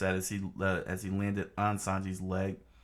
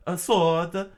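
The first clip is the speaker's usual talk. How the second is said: higher, louder alarmed cry; screamed; 10 semitones higher, 8 dB louder than usual. Acted. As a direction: yelp at the blade. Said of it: "Chopper screamed out".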